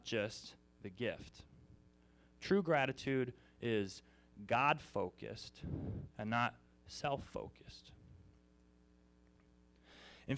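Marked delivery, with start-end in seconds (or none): 2.4-7.9 slow, stress on "God-focused" and "not"; emphatic point. Acted. Preacher hammering the sermon's main point, slow emphasis. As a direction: lean hard on "God-focused", then "not self-focused".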